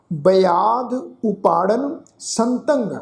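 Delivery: slow, drawn-out chanting of the verse; slow scripture recitation. Shown as a demonstration. Teacher recites the verse for the congregation, slow chant. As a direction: intone each word slowly and reverently.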